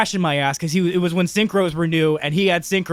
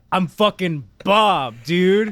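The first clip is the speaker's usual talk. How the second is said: mock stoned drawl; 3 semitones higher, 4 dB louder, much slower than usual. Stoned friend repeats.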